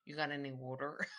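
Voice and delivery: northern "water" with a full r; northern accent. Pretend. Playful request for a drink, northern accent. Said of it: "with a northern accent".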